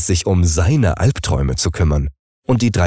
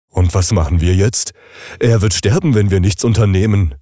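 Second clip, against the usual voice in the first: anxious appliance; 3 dB louder than usual. Acted. Panicked appliance fears death.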